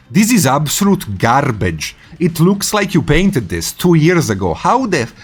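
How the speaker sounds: mock outraged tirade; brutal critique. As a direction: rip into it like a merciless critic. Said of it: "Marika is brutal, like, brutal".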